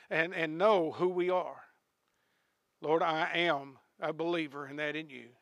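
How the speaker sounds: hushed pastoral prayer; closing prayer. Real, not acted. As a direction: pray humbly over the congregation.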